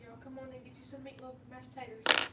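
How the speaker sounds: mock Southern accent. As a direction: call them in with Southern hospitality. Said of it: "my little redneck wife".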